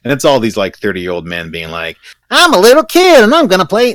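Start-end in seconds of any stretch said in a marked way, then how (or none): 2.3-3.9 put-on high, loud grown man faking a kid; a grown man badly playing a little kid; terrible kid voice. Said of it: "not that terrible kid voice".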